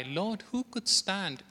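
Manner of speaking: slow, soft plea of "who could stand"; crying out. Acted. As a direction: ask it slowly, like a desperate cry. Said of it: "we cry".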